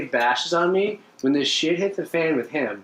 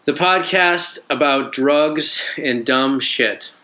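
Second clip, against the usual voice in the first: slow, over-deliberate tagline; horrible-sounding intro read; slower than usual. Shown as a demonstration. Co-host trying the podcast intro, slow and deliberate. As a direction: drag out the show's tagline. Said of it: "It sounds horrible when you say it".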